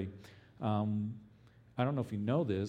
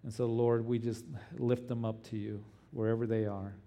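earnest pleading prayer. Acted. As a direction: pray earnestly for the persecuted. Pastor leads congregation prayer.

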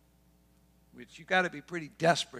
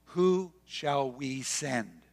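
slow deliberating question; much slower than usual. Retold or imitated. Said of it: "They speak to amongst themselves".

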